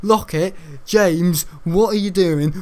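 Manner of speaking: mildly acted classroom scolding; imitated stern teacher. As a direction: mimic a teacher calling out culprits. Teacher pauses video to scold.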